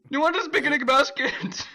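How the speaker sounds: high-pitched cartoon bear impression; Yogi Bear. Friend continuing the picnic gag, as a high Yogi Bear. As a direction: offer it in a high, hammed-up bear voice. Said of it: "That sounded more like Yogi Bear".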